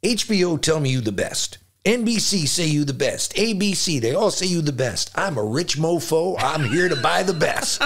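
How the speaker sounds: lively, brash boasting. Retelling what a visitor said on arriving at the studio: Don King impression. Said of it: "if I imitate the way he talked to me".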